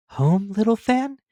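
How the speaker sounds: slow, wondering schoolboy; a lonely boy who can barely believe it; young boy voice. Acted. Boy Scrooge asks his sister, lightly voiced boy.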